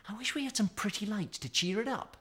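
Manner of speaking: put-on a small girl making a dreamy wish; Mickey wishing. A narrator's reading. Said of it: "said Mickey".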